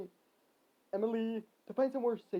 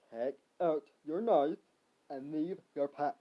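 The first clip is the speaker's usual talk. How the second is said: mysterious voice; 2 semitones lower, slower than usual. Acted. Mysterious voice instructing the hero, slow and measured.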